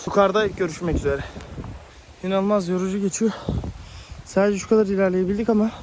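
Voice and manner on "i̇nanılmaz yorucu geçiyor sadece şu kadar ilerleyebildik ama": panting between words; winded from the steep uphill climb; out of breath. Real, not acted. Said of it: "şu an nefes nefese kaldım".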